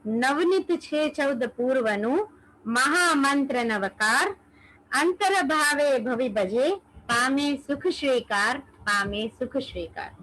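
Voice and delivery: slow, measured devotional recitation; verse recitation. Acted. Teacher recites a Navkar verse to followers, slow devotional recitation. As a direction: recite slowly, line by line with pauses.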